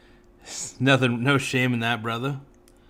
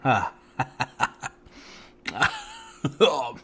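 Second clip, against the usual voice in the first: talking with sour candy in mouth; eating sour candy; 6 dB quieter than usual. Real, not acted. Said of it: "Oh, it's sour".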